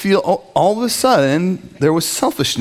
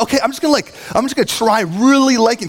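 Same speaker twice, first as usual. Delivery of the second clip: tag; 6 semitones higher, faster than usual. Acted. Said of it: "forcing yourself to, like, love".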